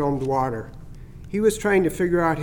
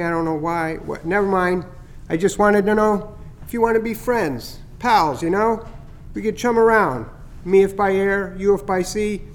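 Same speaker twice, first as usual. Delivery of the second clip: higher, chirpy bird voice, pleased with his prank; teasing starling; 3 semitones higher than usual. Acted. Starling Chatter teasing Skippy about the scare, higher and chirpy. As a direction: gloat a little over the fake heron scare.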